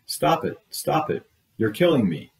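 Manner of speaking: put-on high, frantic child's shrieks; a child shrieking at the doctor in panic; hysterical shriek. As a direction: shriek as if in terror. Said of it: "shrieked terrifyingly, hysterically".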